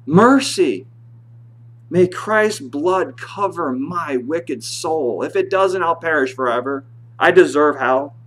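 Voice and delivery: loud, slow pleading cry to God; a desperate sinner's loud cry for mercy. Shown as a demonstration. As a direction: beg for mercy as if your soul depends on it. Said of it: "I'm gonna start crying now, a different cry".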